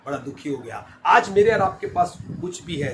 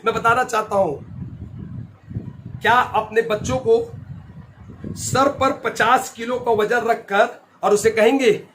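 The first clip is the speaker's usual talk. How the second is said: emphatic preaching; 7 semitones higher, 7 dB louder than usual. Real, not acted. Preaches to the congregation.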